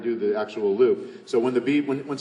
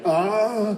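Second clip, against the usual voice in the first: running out of air; 8 semitones higher than usual. Shown as a demonstration. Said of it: "'cause otherwise you'll be like".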